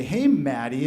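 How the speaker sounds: mock-obnoxious bro greeting, pitch jumping on "Hey"; loud obnoxious. Bro hails a stranger by his name tag, mildly loud and obnoxious. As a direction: lightly imitate an obnoxious guy calling out. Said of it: "in, like, this really loud, obnoxious voice".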